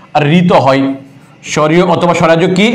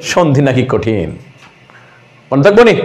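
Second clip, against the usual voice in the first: mock complaining student; 6 semitones lower than usual. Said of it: "student না বলে কি".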